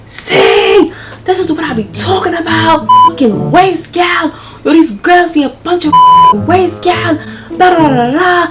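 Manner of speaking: high-pitched, ranting Caribbean impression; mock threatening rant in a Caribbean accent; Caribbean American accent. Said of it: "I'm guessing he was Caribbean American".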